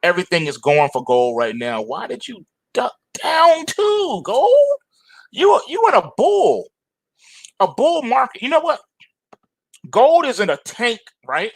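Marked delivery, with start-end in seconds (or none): 1.8-11.5 much higher, teasing disbelief; high-pitched mocking why-you-scared; mock taunting. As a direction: taunt the chart like a scared friend. Mocking gold for ducking.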